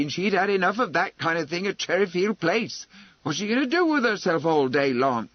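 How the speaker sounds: indignant protest, mounting in force; gathering wrath. Acted. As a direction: let the indignation build as you argue. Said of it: "had been listening in gathering wrath".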